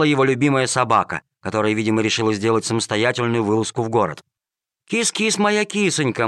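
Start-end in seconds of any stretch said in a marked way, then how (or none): 4.9-6.3 calling a cat. A narrator's reading. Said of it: "машинально позвал её редактор".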